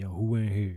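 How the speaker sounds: loud, trying-hard, put-on sexiest voice. Retelling how he greeted a phone chat room: imitating his own sexiest voice. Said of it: "I used to try to put on my sexiest voice".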